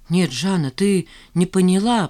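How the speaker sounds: ordinary delivery, nothing marked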